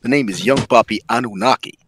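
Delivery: lightly polite, quick phone receptionist voice; a touch of office phone politeness; mild customer service voice. Retold or imitated. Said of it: "customer service voice".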